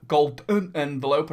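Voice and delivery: lightly put-on voice, lifting at the end; a touch of playful oddness; silly voice. Reviewer showing off the package, in a slightly silly voice. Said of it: "why I'm talking like that".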